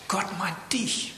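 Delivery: slow whisper, as if telling a secret; preacher whispering to each listener, slow and intimate. Real, not acted. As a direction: breathe it slowly to one listener.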